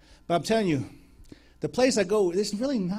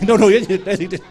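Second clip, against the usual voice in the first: laughing protest; 2 semitones higher, 12 dB louder than usual. Retold or imitated. Flustered denial, laughing.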